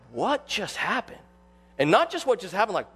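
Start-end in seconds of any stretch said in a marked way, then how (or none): 0.1-1.2 hushed, slow disbelief; stunned, drawing the words out softly; awestruck shock. Acted. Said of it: "it was kind of an awestruck shock".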